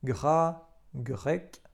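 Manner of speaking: "gras" and "grec" with a hard G and a French R; teacher showing hard G; French pronunciation. Shown as a demonstration. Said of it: "tak jak w słowach".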